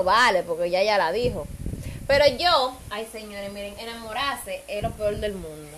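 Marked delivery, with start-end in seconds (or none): 2.9-5.8 softer, tearful lament over lost love; half-joking sob story; mock crying. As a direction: whine it like a heartbroken drama queen. Lovesick lament to the audience.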